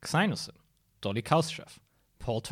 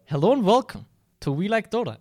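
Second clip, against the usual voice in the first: excited; 9 semitones higher, 7 dB louder than usual. Acted. Restarted intro, louder, higher.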